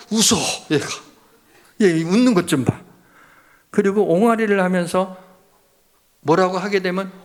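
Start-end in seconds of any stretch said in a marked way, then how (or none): 0.1-2.8 delighted parent. Retold or imitated. Parent marvels at smiling baby.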